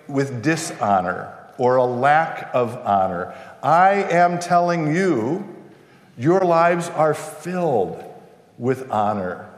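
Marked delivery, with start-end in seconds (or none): 3.6-9.5 reassuring. Real, not acted. Pastor reassuring listeners of honor.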